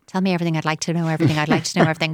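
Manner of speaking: rushed, gushing parent demands; mock eager parent; over-eager parent. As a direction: rattle it off like a keen interviewer.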